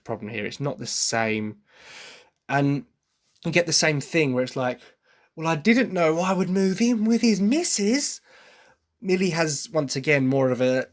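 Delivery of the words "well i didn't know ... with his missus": sing-song line pitched high with a sharp edge; higher, pointed mock singing; sharp British edge. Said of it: "a sharpness to her voice when she says that".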